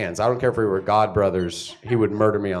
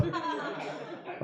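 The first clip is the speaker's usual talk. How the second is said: whispered aside; 14 dB quieter than usual. Retold or imitated. Whispered lead-in.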